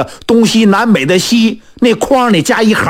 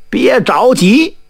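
slow, calming tone; unhurried reassurance; 4 semitones higher, slower than usual. Acted. Fortune-teller calms the worried blacksmith, unhurried. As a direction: take your time and soothe him. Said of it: "李太白不慌不忙".

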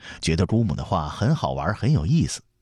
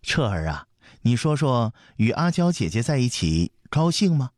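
put-on higher coaxing question to a child; smiling question; 6 semitones higher than usual. A narrator's reading. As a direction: ask the little prince with a smile. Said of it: "笑着问". (笑着问孩子)

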